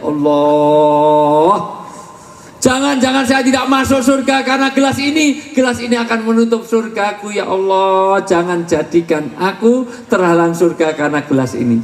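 high, lightly tearful lament; a touch of sobbing as she pleads with God; mock crying prayer. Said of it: "Ummul Minin nangis sejadi-jadinya". (ratapan menangis yang dibuat-buat dengan suara tinggi)

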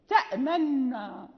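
"تأمنا" slow, nun not fully doubled; partial merging with ishmam. Shown as a demonstration. Teacher isolates the word to show the ishmam, slow. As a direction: say "تأمنا" slowly, lips round on the nun without full shadda. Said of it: "ليس إدغاما كاملا".

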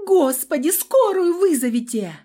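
high, loud desperate plea; desperate cry. A narrator's reading. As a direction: scream for help in despair. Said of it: "В отчаянии закричала".

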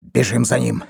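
ordinary delivery, nothing marked

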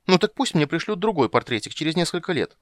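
put-on a girl snorting back at the witcher; snorting retort. A narrator's reading. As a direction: scoff at the idea. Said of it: "фыркнула она".

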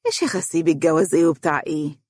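quick, crafty dismissal; cunning coaxing, rattled off lightly; sly. A narrator's reading. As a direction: brush it off slyly and fast. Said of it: "ثم أردف بمكر".

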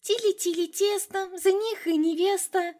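put-on high childish singsong tease; little girl teasing her sister with a rhyme, high singsong. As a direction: chant it like a cheeky little sister. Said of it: "младшая сестрёнка заливисто рассмеялась".

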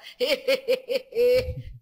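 playful entity laugh; Exu cackle. Acted. Entity laughs after its name.

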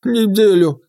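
mocking echo; mocking mimic. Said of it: "передразнил меня Хлюпень".

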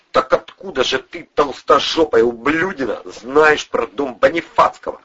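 insulting, distrustful questioning; suspicious grilling. A narrator's reading. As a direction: interrogate him, pressing on every word. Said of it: "заподозрил неладная Бандура".

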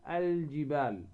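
الجبال with a distinct L before the J; L of the article held clear in الجبال; clear lam. Shown as a demonstration. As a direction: say الجبال as al-jibal. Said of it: "نظهر هذه اللام".

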